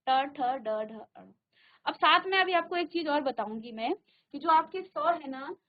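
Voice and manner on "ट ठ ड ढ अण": ट, ठ, ड, ढ, अण said clearly with tongue curled back; teacher modelling the retroflex row; retroflex series demo. Shown as a demonstration. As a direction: sound out ट ठ ड ढ अण slowly for students. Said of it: "जहां पर स्पर्श कर रही है".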